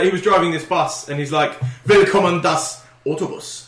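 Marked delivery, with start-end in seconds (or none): 1.9-3.7 slow imitation of accented German; deliberate, put-on German bus-driver greeting; mock German, word by word; Swedish YouTuber's German. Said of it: "speaks a little bit of German".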